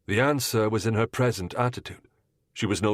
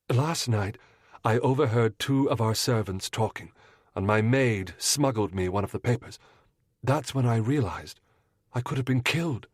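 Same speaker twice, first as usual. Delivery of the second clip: lightly voiced young lady; 3 semitones higher than usual. Mrs Munro confiding her fear to the detective, lightly voiced. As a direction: confide it earnestly. Woman recounts overheard news.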